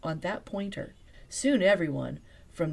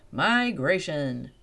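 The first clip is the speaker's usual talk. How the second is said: slow, louder guide's answer; calm answer; 7 dB louder, slower than usual. Acted. Guide answering the sisters, slow and sure. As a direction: say it slowly and plainly. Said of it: "answered the guide".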